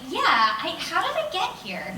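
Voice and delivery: rising high into a laugh; confused, chuckling through it; dazed laughing reply. Retold or imitated. After fainting, he answers the engineer with a bewildered laugh.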